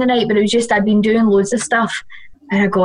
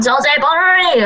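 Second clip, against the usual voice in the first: high, slow, stretched-out call; mock crowd yell, dragged right out; imitated drunken holler; 6 semitones higher, much slower than usual. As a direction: mimic a sozzled clubber hailing the DJ.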